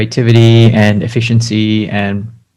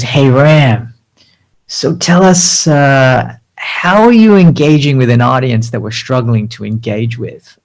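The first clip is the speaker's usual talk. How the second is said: put-on American accent; 2 semitones higher, slower than usual. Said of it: "Give me your best American accent".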